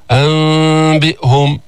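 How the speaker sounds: أنبئهم with a slow hum through slightly open lips; faulty m in أنبئهم, lips not closed; lips left apart. Shown as a demonstration. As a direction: hold the nasal of أنبئهم without touching lips. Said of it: "تترك فرجة".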